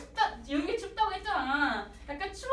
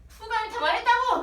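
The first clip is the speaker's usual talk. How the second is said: higher, louder shout; cop slamming desk; 8 semitones higher, 7 dB louder than usual. Retold or imitated. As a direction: bang the table and yell it. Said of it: "막 이러고 탕탕 하면서".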